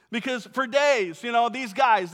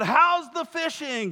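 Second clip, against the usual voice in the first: mock easy, light, casual called-out tone; 4 semitones higher than usual. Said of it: "he yells out".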